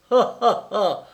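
short mocking ha ha ha; sneering laugh. Jacques mocking the prince's gesture, sneering laugh. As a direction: snicker at the prince. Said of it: "ricana Jacques".

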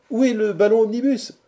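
high, loud demand from a rowdy crowd; loud heckling. A narrator's reading. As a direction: call out the absurd demand at full voice. Friends heckle the captive Quatercam. (interpellation forte et aiguë)

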